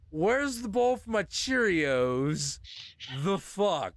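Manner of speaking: hammed-up morning outrage; mock confused outrage. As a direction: call out for your cereal bowl, baffled.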